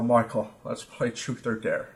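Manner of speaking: slow, lightly voiced Armenian accent; put-on Armenian accent. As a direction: imitate a friend with a slight Armenian accent. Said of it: "you give him this accent then".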